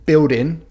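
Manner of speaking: Cockney accent, "buildin'" said with no final G; Cockney demo, clip the G off "buildin'"; Cockney dropped G. Shown as a demonstration. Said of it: "drop the G".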